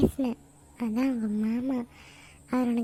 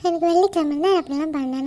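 raised, insistent denial to mother; loud protest; 3 semitones higher, 5 dB louder than usual. Acted. Daughter protests loudly to mother. (அம்மாவிடம் உரத்த மறுப்பு)

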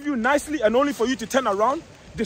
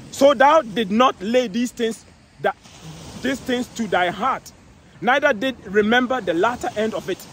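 1 slow scripture reading. Acted.

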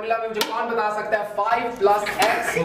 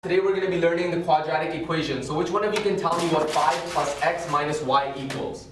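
slow, soft and even; calm teacher; 3 semitones lower, 4 dB quieter, much slower than usual. Acted. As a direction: discipline him quietly. Calm Western teacher disciplines.

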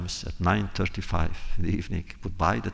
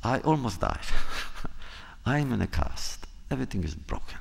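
mock complaint; 5 semitones higher than usual. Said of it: "And I said".

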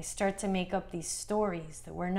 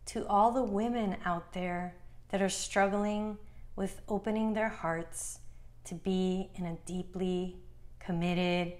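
guided meditation. Acted. Meditation guide to women healing father wounds, calm and measured. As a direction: guide the listener gently, phrase by phrase.

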